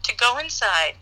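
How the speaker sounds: measured imitation of an angry dad; mock-stern fatherly command; composed anger. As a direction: give the order with restrained anger. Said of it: "he gets himself composed".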